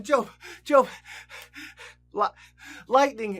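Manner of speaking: loud, panting alarm calling Job; a messenger bursting in to warn Job, shouting breathlessly. Acted. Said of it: "he's all out of breath".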